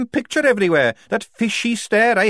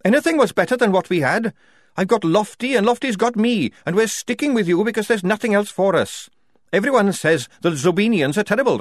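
loud, higher heated tirade; red-faced anger; 10 semitones higher, 5 dB louder than usual. A narrator's reading. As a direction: hammer out every grievance. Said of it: "red in the face".

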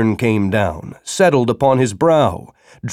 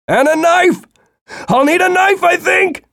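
much higher, louder call; 4 dB louder than usual. Acted. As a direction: call across the house. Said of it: "he called out".

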